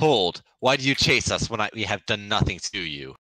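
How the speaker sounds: booming drill sergeant command; parade ground voice. Acted. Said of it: "boom out in my best parade ground voice".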